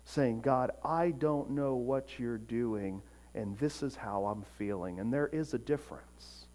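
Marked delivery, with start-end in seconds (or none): 0.4-5.0 understated, sincere plea in prayer; honest heartfelt prayer. Acted. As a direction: pour your heart out quietly. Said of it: "an honest pouring out of one's heart to God".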